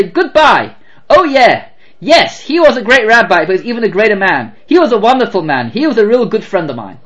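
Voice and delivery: put-on lightly done southern accent, eager to tell. Operator telling the rabbi's grandson, fond southern accent. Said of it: "I do not have a good southern black accent".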